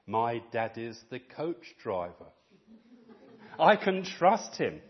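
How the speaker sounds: put-on slow, calm, trusting child; steady and unworried, slowly; calm little boy. Calm boy reassuring himself in the storm, slow.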